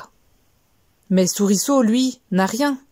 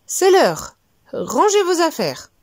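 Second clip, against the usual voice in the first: trembling; 8 semitones higher, slower than usual. Acted. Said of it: "toute tremblante".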